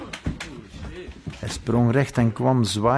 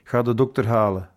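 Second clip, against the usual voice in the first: a touch of a curt reproach; mild snap. Acted. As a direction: scold the guard briskly, understated. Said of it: "snauwde de majoor".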